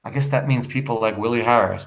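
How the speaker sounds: understated, weary remark. Acted. Wife remarking on husband's friends, mildly weary. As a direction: say it with a touch of tiredness. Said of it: "Ruth wearily".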